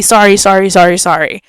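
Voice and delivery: imitating sorry on a loop; repeated apology. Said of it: "like, repeatedly".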